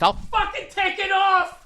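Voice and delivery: very high, slow, strained mock voice; high cartoonish self-mockery; mock squeaky fit. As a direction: squeak it out like a tiny furious person. Mock quote of own fit.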